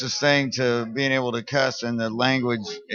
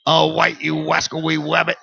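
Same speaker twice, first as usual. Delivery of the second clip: cartoon hunter lisping his r's; lisping Elmer Fudd, with the r sounds turned to w; 3 semitones higher than usual. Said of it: "I like when you do voices".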